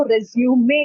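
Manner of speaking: "रिज्यूमे" as rez-yoo-may; pronunciation demo. Shown as a demonstration. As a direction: say "रिज्यूमे" with a clear final "may". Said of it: "इसको रिज्यूमे कहा जाता है". ("रिज्यूमे" के अंत में "मे" साफ़ बोलें)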